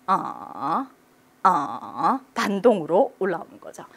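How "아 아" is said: low drawn-out "아" that rebounds upward; dipping tone. Shown as a demonstration. Teacher repeating the third tone, dipping then rising. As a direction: sink "아" low, then swing it up. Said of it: "내려왔다가 목젖에서 올라가는".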